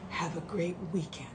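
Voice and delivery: soft whispered sign-off; hushed farewell; whispered goodbye. Real, not acted. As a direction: breathe the goodbye to the viewers. Sign-off whispered after plain one.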